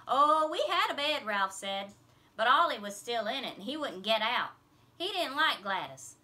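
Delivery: loud eager explaining; just blurt it all out; boy explaining their home; loud blurting kid. A narrator's reading. Ralph telling loudly.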